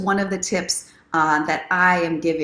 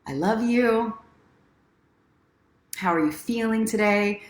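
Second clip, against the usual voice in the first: tender self-talk; 4 semitones higher than usual. Retold or imitated. To herself in the mirror each morning, tender. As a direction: speak gently to yourself. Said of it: "I start my day with first".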